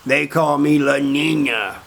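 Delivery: slow, drawn-out boast in character; proud self-introduction. Retold or imitated. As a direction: announce your nickname slowly, stretching each word. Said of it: "this goes on and on".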